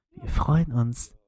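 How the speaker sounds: slow, loud drawn-out ad read; monotone ad voice. Retold or imitated. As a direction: drone it like a cheesy commercial. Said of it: "richtig monoton in der Scheißstimme".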